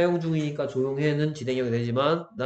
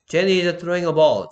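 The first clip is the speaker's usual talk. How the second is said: very slow and a bit louder English example; slow model sentence; 4 semitones higher, 7 dB louder, much slower than usual. Shown as a demonstration. Teacher reading a model sentence aloud to students, slowly. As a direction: read the example slowly for the class.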